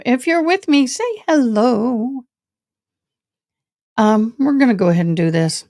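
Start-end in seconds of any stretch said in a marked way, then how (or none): 0.1-2.2 sing-song greeting. Pretend. Repeats greeting higher, slower.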